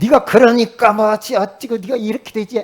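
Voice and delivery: loud, high-pitched scolding with blame.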